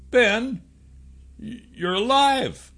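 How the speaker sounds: high, stammering disbelief; stunned. A narrator's reading. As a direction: gasp it out in shock. Hero shocked friend lives.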